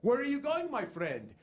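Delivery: mock cab driver conductor voice. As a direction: ham up a chatty driver on the PA. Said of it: "you'd hear the announcement".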